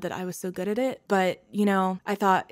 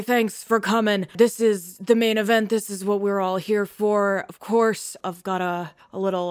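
pompous emcee; 4 dB louder than usual. Acted. Guild head opening the ceremony, loud and pompous. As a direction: grandly welcome the audience from the podium. GM voices a speaker at podium.

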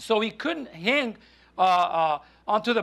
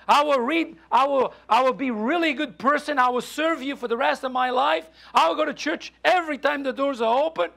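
desperate promising; 5 semitones higher than usual. Acted. John bargains desperately with God.

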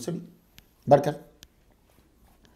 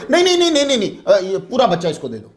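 retold mother's plea; 3 semitones higher, faster than usual. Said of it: "छोटी उम्र वाली, एकदम आगे बढ़ी".

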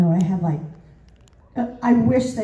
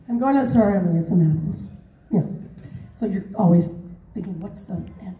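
low line trailing away at the end; dumping off; 4 semitones lower than usual. Shown as a demonstration. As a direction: demonstrate letting sentence endings drop. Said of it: "you start talking like this".

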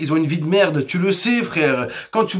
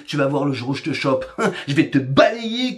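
lower, fast mock threat from a cocky kid; tough-kid threat; 7 semitones lower than usual. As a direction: puff up like a kid picking a fight. (imitation d'un gamin qui menace, plus grave)

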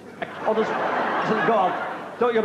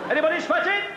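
bingo caller; 4 semitones higher than usual. Acted. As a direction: sing out the numbers to a hall of players. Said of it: "bingo caller this evening".

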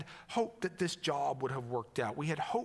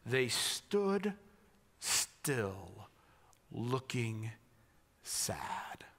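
slow, hushed scripture reading; 5 semitones lower, 5 dB quieter, much slower than usual. Shown as a demonstration. Pastor reading the verse slowly to his congregation, hushed. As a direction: linger on each word of the verse. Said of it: "I love just how clear it is".

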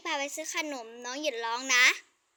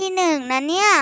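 loud call; 13 dB louder than usual. Acted. Child announcing her grades.

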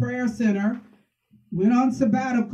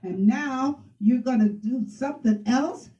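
retold upset husband; 2 semitones higher than usual. Husband complaining about early praying and noise, mildly upset. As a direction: imitate a fed-up spouse, without raising volume. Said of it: "like, freaking out 'cause he's like".

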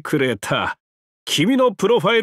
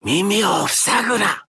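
shouted command; 2 semitones higher than usual. Acted. Commanding the visitor.

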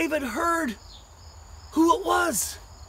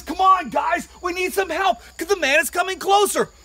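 urgent call; 3 semitones higher, 4 dB louder than usual. Acted.

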